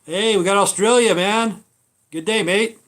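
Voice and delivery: excited greeting. Real, not acted. Greeting Australian viewers on stream.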